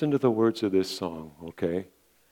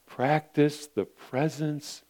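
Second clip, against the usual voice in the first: slow reflective; 4 semitones higher, much slower than usual. Real, not acted. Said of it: "repeat slower".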